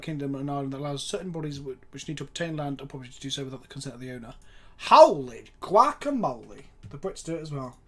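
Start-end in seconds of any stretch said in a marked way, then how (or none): 4.8-6.6 surprised exclamation. Real, not acted. Surprised by the rule.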